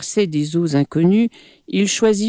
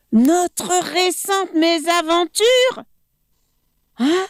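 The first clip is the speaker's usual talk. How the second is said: incredulous echo; 12 semitones higher than usual. Acted. Monkey echoes in disbelief.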